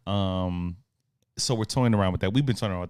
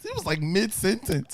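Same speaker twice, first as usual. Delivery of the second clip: whispering; 11 semitones higher than usual. Real, not acted. Whispered aside during coughing fit.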